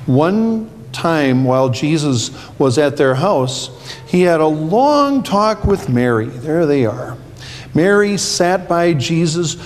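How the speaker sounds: put-on reading to children. A narrator's reading. Pastor reads Bible story to kids.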